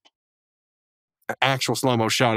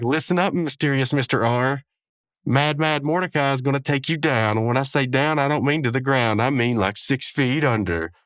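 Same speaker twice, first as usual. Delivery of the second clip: lightly voiced wrestler trash talk; corny wrestling promo; 3 semitones higher than usual. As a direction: deliver a mildly hammed-up B-grade promo. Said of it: "laying out these corny, you know, like, B quality".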